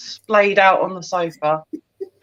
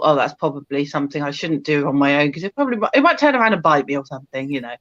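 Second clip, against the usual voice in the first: worried thought; 7 semitones lower, faster than usual. Retold or imitated. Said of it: "and thought".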